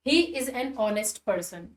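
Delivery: slow, word by word; slow example read. Shown as a demonstration. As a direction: read the example slowly and clearly. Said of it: "एक और example देखो".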